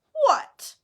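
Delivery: high, loud, petulant snap; sulky. A narrator's reading. Myrtle answering the summons, sulky. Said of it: "she said sulkily".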